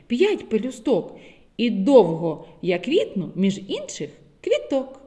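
put-on sing-song riddle for small children; riddle recital. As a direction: recite the rhyme gently. Reads riddle poem. (загадка для дітей)

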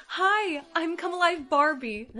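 bright, chirpy doll greeting. Acted. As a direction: greet her like a toy come alive.

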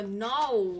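put-on American-accented "No"; mock American "No"; imitated American no. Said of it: "Americans go".

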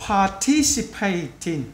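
drawn-out syllable-by-syllable reading; slow, word by word. Shown as a demonstration. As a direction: spell out each syllable slowly. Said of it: "mình nói chậm từng chữ". (đọc chậm từng âm)

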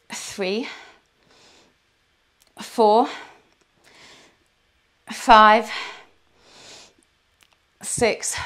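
kettlebell reps. Real, not acted. Counting reps during kettlebell workout.

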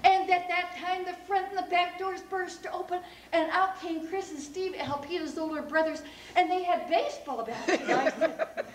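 high, loud, urgent storytelling; excited narration. A narrator's reading. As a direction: tell the sudden danger at full excitement. Narrator at climax of chase.

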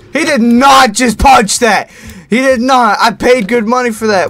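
indignant disbelief. Real, not acted. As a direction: protest in outraged disbelief. Indignant at the punched flashlight.

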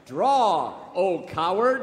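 loud, high gunfight challenge; loud, high showdown shout. Acted. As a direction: call him out across the street.

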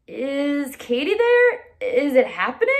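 anxious dad asking far away; eager soldier. Acted.

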